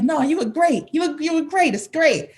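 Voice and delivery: high-pitched, insistent reassurance; reassuring dad. Retold or imitated. Dad to daughter after her first jazz song, reassuring. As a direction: imitate a father eagerly comforting his child.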